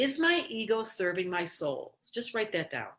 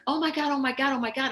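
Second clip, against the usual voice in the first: shocked gasp; 4 semitones higher, 3 dB louder, faster than usual. Retold or imitated. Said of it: "I looked in the mirror and I was like".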